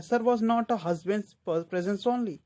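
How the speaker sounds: slow, deliberate verse reading; measured poem lines read to a class; poem recitation. Acted.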